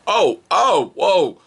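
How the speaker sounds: high loud laughing taunt; high loud laughing whoa; gleeful gotcha. Real, not acted. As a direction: crow over catching him out.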